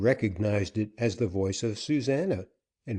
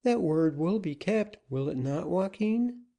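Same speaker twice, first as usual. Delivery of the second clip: put-on appealing young woman; 9 semitones higher than usual.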